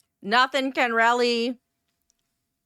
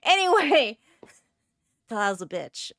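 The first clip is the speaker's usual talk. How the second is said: chewing while talking. Real, not acted. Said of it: "eat peanut butter crackers".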